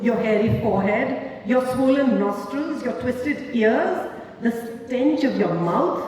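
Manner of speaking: a woman mocking her lover's looks; scornful tirade. She berates him.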